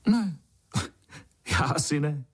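high "no", then a chuckle; laughing reply. A narrator's reading. Boy answers the little ant, laughing. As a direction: deny it with an amused laugh. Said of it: "zasmál jsem se".

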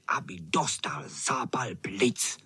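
a wicked little whisper; cruel whisper. A narrator's reading. Freckled boy whispering a mean plan, cruel whisper. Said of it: "Ukrutně šeptal ten pihovatý".

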